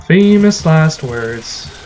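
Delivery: Famous last words drawn out slowly; mock-ominous Famous last words; slow ominous drawl. Shown as a demonstration. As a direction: stretch each word of Famous last words out.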